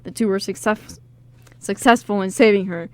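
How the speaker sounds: measured dramatic synopsis read. Acted. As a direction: read it like a trailer, mildly dramatic. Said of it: "say it in a really dramatic voice".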